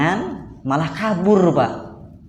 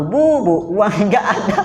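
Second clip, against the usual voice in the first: higher, louder acted exasperation; mock angry husband; 4 semitones higher, 3 dB louder than usual. Husband snapping back at wife's request for help, mock angry. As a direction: play an irritated husband, half laughing. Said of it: "Jangan langsung marah-marah, emosi".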